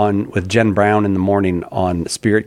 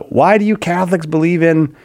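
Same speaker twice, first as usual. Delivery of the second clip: raised, grumpy demanding question; mad; 6 semitones higher than usual. Shown as a demonstration. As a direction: challenge it like an irritated caller. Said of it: "I'm saying it like you're mad at us".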